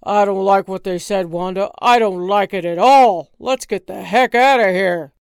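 fast, worried pleading; nervous husband. Acted. Husband to wife, nervous near angry penguins. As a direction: back away nervously.

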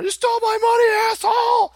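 loud, high-pitched outraged yell; hammed-up angry heckle from the crowd; mock heckler shout. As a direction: shout it like an audience member accusing the speaker. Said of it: "They're gonna shout up during the seminar".

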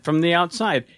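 unvoiced whisper. Real, not acted. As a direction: whisper it as an aside. Whispered aside.

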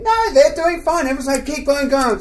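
high-pitched, egging-on audience voice; urging crowd. Retold or imitated. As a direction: wave away the worry, pitched high. Imitates crowd urging him on.

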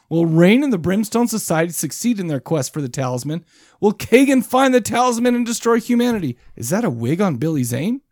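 mock trailer announcer read; teaser narration. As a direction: read it like a cliffhanger voice-over.

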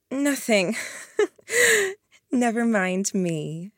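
light, laughing dismissal; smiling. A narrator's reading. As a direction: brush it off with a smile. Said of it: "she said, smiling".

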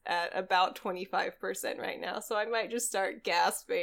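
drugged-up, short of breath; groggy from medication. Real, not acted. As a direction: talk while drugged and sick. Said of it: "I'm really drugged up".

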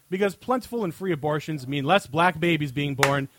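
emphatic segment-host read, punching key phrases; scripted comic rant. Acted. Host answering a listener question on air, scripted comic rant. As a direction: read a mock-serious written answer aloud.

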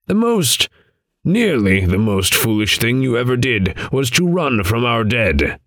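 a wise elder's sad rebuke; grave old man voice. Acted. Adam rebukes Vane.

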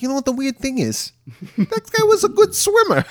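put-on very high comic Jewish-accented voice. Tony Danza talking to the cop, comic Jewish accent. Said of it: "First he's Italian, now he's Jewish".

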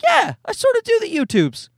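high, put-on voice echoing her words; mocking her phrase. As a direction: parrot her words back with mock sweetness.

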